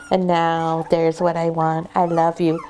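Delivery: low, tender puppy talk. Shown as a demonstration. Breeder encouraging a puppy to look at her, gentle. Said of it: "Talk in a softer voice".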